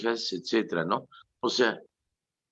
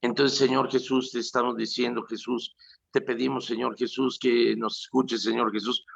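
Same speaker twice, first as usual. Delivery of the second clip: hysterical praying; 3 semitones higher than usual. Retold or imitated. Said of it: "Oye, no seas histérico".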